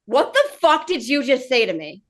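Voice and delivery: retold affront, every word deliberate; affronted disbelief. Woman challenges date over mindset remark, affronted disbelief. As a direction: confront them, controlled and incredulous. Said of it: "I swore right fucking like that".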